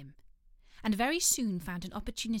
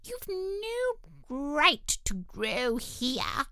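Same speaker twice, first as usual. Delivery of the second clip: sleepy dormouse; 5 semitones higher, much slower than usual. Acted. Dormouse complains.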